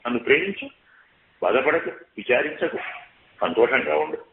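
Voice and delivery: lightly acted Ravana consoling Sita; Ravana wooing Sita. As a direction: sweet-talk her into trusting him. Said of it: "ఎవరి మాట ఇది?".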